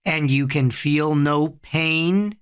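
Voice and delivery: slow, level question rising at the end; drawn-out hypnotic prompt; hypnotist. A narrator's reading. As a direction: lead him on in a measured, steady voice. Hypnotist checks on his subject.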